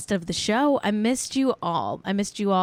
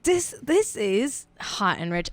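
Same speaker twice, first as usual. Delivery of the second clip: put-on Cockney accent; 2 semitones higher, slower than usual. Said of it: "I did a Cockney accent".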